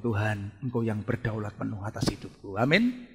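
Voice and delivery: submissive prayer. Acted. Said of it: "kita mesti ngomong". (doa pasrah bernada rendah)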